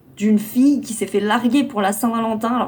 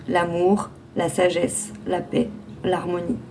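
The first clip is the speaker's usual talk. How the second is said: calm, measured affirmation read. Acted. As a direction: read it like a guided meditation. Reads the card affirmation.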